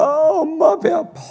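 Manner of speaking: put-on whiny child. Child complaining of stomachache.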